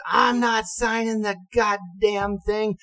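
high, slow, furious refusal; angry refusal. Retold or imitated. Captain angrily refusing to sign the survey. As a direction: spit out the refusal. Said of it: "And he goes".

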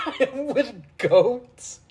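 high, slow echo through laughter; amused high-pitched parroting, laughing; laughing mimicry. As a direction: crack up while mimicking the mock accent. Laughing echo of the mock caller.

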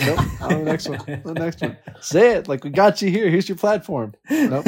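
mock refusal.

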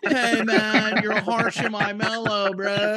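high, loud stoner-hippie caricature; shitty hippie impression. Friend doing coworker for laughs, loud hippie impression. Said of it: "super shitty hippie impression".

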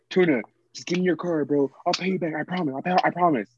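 mock screaming. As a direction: mimic his panic without really yelling. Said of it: "You were screaming".

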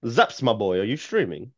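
lightly imitated friend's voice; casual mimicry of a friend calling; Deli. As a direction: do a mild impression of a streamer pal. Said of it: "What's, what's your Deli impression?".

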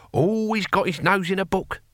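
put-on high, fond old warrior; benevolent. A narrator's reading. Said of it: "he said benevolently".

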